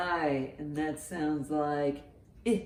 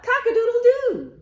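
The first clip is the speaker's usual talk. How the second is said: much higher, loud crowing cock-a-doodle-doo; rooster crow; 9 dB louder than usual. Acted. Storyteller crows like a rooster for the children, loud and high. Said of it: "Wake up and shout".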